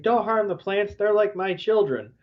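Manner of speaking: a touch of distress, retold; mildly upset. Florinda begs them to spare her plants, mildly upset. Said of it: "you know, upset".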